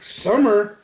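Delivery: mock shocked friend. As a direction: sputter in alarmed confusion. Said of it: "And then he was like".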